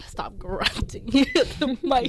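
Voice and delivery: whispered with a laugh. Real, not acted. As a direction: whisper it, giggling. Teasing partner near the mic.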